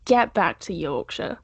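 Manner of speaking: slow, drawn-out playful telling-off; mock stern scolding. Fan scolding a pop star over his accent, slow mock sternness. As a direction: scold him home slowly, half-joking. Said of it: "I'll go".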